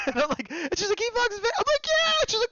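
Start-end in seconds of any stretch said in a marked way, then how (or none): 1.0-1.5 very high squealed realisation; squeaky re-enacted amazement; imitated excitement. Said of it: "bigger explosion of emotion with her". 1.9-2.1 very high excited squeal; re-enacted squeal of agreement; explosion of emotion. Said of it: "I had a bigger explosion of emotion".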